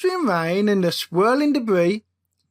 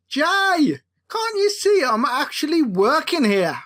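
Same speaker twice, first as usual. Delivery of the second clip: put-on snappy Brummie accent; 4 semitones higher than usual. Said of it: "Miller snapped in his broad, brummy accent".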